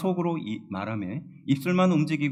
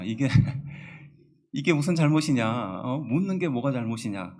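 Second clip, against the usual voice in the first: puzzled man; 4 dB louder than usual. Retold or imitated. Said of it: "우리 남성들은 어리둥절할 겁니다".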